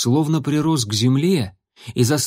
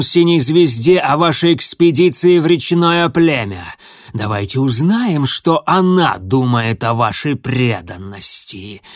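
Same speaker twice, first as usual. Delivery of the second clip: louder, cold threatening voice; menacing threat; 4 dB louder than usual. Acted. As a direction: savour the threat. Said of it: "прошипел он".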